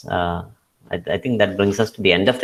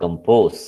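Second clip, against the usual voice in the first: "compose" stressed on POSE; com-POSE, weight on the second syllable; 3 semitones lower than usual. Shown as a demonstration. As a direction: lean on the end of "compose". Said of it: "second സിലബിളിനാണ് stress".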